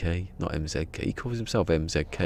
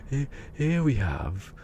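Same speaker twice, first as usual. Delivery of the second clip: David Attenborough impression; slower than usual. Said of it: "David Attenborough".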